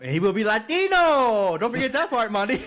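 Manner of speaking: high teasing through laughter; giggling jab at his co-host; laughing tease. Real, not acted. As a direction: rib him while cracking up. Teasing about Latino Galactus rumor.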